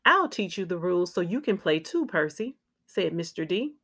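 put-on lively, clearly phrased read-aloud for young children; picture-book narration. A narrator's reading. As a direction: read a children's story with expressive ups and downs.

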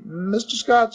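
put-on light Cockney accent, "Mister Scott" pitched high; Cockney servant pleading "Mister Scott"; Cockney bellboy. Thomas appealing to his master, light Cockney. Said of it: "Cockney dialect".

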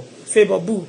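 normal talking voice

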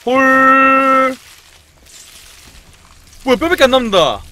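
loud, high shocked gasps. Real, not acted. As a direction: react in horror to the screen. Rats devour a man on screen.

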